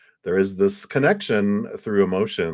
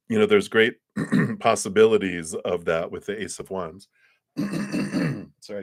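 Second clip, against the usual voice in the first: throat catching mid-sentence; frog in throat. Real, not acted. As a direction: talk through a frog in throat. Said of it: "I got a frog in my throat suddenly".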